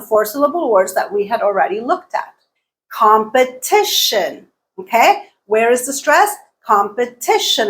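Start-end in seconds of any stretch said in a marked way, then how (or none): 2.9-4.5 "Competition" slowly, com-pe-TI-tion; stress on third syllable. Shown as a demonstration. Teacher asking where stress falls, slow third-syllable stress. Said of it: "It's on the third syllable". 6.6-7.7 "Competition" as com-pe-TI-tion; stress on third syllable. Shown as a demonstration. Teacher answering where stress falls, third-syllable stress. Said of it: "It's on the third syllable".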